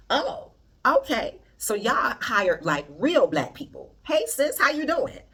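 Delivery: high, loud imitation of a delighted hello; pleasantly surprised greeting. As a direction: mimic someone surprised, slowing then perking up high. Retelling a celebrity's surprised greeting.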